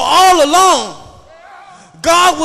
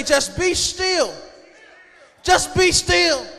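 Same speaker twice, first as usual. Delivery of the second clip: slow, softer, steadying command; Moses calming the people; 5 dB quieter, slower than usual. Acted. Moses to the trapped Israelites, slow and calming. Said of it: "Moses say".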